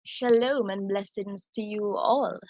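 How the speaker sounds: slow, measured British greeting; British accent, unhurried. Shown as a demonstration. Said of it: "say hi in their British".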